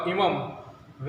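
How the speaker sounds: इमम drawn out very slowly and softly, the final म held as a half m; slow anusvara demo. Shown as a demonstration. Teacher slowly sounding out इमम for students, very slow and soft. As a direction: stretch इमम out slowly and softly, closing on a nasal m. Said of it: "इसका मतलब क्या होगा".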